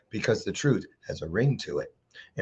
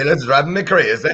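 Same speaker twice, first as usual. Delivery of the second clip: mock Irish accent; 4 semitones higher than usual. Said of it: "You know what I think? Say".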